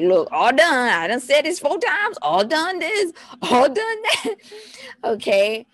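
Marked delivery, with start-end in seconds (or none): 0.0-4.3 loud, high, mock-frantic outburst; hammed-up losing patience, climbing higher; exasperated parent. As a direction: build to a squealed fed-up rant. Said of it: "it's not working for you. Like".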